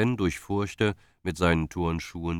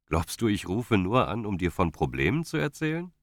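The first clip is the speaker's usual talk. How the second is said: playfully wounded, pitch lifted; a touch of feigned indignation; mock offended; 5 semitones higher than usual. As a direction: act lightly insulted, teasing. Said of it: "sagte Ben gespielt beleidigt".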